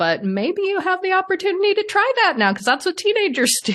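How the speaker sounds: laughing through the words, very high pitch. Quoting what the therapist said after a relationship ended, laughing while speaking.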